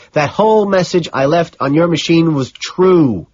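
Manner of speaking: high, loud, insistent confession; frantic outburst. A narrator's reading. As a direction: hammer each claim, stretching out the words. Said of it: "trying to ignore my outburst".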